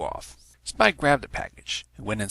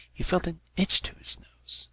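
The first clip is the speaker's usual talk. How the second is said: breathy hush building to the sneeze; whispered; 9 semitones higher than usual. A narrator's reading. Narrator hushed as Spike feels a sneeze coming. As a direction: whisper it as the itch grows.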